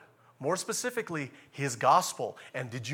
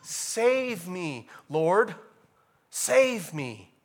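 loud, high pleading cry; desperate cry; 6 semitones higher, 8 dB louder, slower than usual. Acted. Preacher voicing the psalmist crying to God, loud and pleading. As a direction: cry out to be saved. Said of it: "the psalmist is saying".

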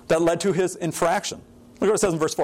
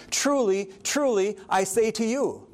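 solemn emphasis; 2 semitones higher, slower than usual. Retold or imitated. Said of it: "he would say something like".

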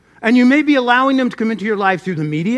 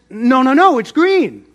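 insistent contradiction; 4 semitones higher, 5 dB louder than usual. Acted. Tiger argues back with donkey.

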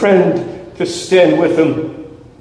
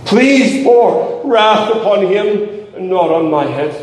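a touch higher, slow, begging God in prayer; pleading prayer; 5 semitones higher than usual. Pretend. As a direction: plead earnestly, as if praying for yourself. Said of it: "you had better pray".

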